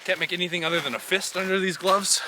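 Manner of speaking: strained, tight from the cold; freezing cold. Real, not acted. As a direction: talk through frozen stiffness. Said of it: "every joint is a little bit frozen".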